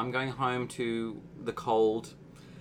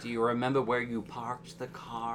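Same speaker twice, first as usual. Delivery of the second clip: put-on Australian doing an American accent; American accent attempt; 5 dB quieter than usual. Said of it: "my American accent's going to go tonight".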